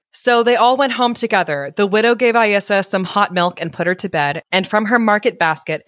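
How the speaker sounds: measured, expressive storyteller; story narration. A narrator's reading. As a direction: read it aloud like a picture book. Reads story aloud.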